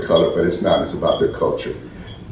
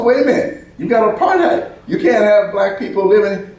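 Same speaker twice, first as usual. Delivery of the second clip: laughing disbelief; 12 semitones higher than usual. Retold or imitated. Arguing with them about apartheid.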